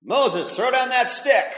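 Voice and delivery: God orders Moses to throw the stick, loud; commanding God. Acted. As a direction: order it slowly.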